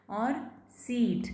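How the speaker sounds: सीट with a long drawn ee; long ee demo. Shown as a demonstration. Teacher contrasting sit and seat, long ee in सीट. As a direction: stretch the ee in सीट slowly. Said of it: "अगर यहाँ पे होता है ना सिट".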